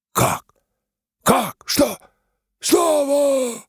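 high, loud confused shouts; crowd shouting. Acted. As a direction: fling out the questions.

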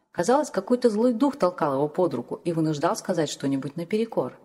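ordinary delivery

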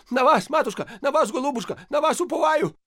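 high, loud fawning patter; rapid pleading. A narrator's reading. Kneeling priest beseeching the lady, high and loud. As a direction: gabble it out, begging on your knees. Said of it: "поклонился в ноги и зачастил".

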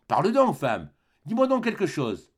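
an aggrieved wife's rising tirade; scolding wife. Acted. Wife scolds husband over the stranger.

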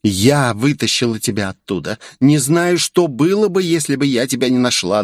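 a hint of melodrama; dramatic. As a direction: play the heroic rescuer. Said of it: "драматично закинув голову".

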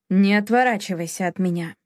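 usual speaking voice

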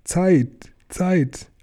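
high, thin squeaked word; sudden squeak. A narrator's reading. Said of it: "mit einem plötzlichen Quieken". (plötzliches hohes Quieken)

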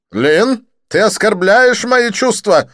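high, slow, loud wounded protest; offended Didier. Acted. Didier pretending offence at Lin, high slow wounded. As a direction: play the hurt friend.

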